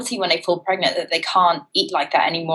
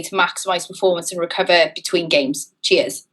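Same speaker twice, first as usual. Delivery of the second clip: put-on subdued Welsh accent. Host reads a rugby player's question in a subdued Welsh accent. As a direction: read out in a not overly Welsh accent. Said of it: "It's quite a subdued Welsh accent".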